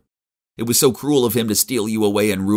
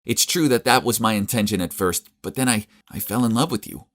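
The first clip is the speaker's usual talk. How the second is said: much higher, pleading and urgent; desperate plea; 6 semitones higher than usual. A narrator's reading. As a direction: beg him to listen. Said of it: "desperate plea to Charles".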